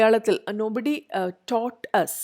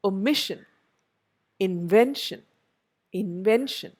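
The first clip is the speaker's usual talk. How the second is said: "Omission, invention" stressed on MIS and VEN; o-MIS-sion, in-VEN-tion, as in "Omission, invention"; penultimate stress. Shown as a demonstration. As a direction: hit the middle of "Omission, invention". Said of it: "penultimate syllable".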